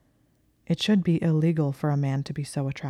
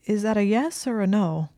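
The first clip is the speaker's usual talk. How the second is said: strained, raised pitch, falling at the end; 5 semitones higher than usual. A narrator's reading. Hermione asks Malfoy for a decision, strained. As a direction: ask it high and under strain. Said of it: "said in a strained voice".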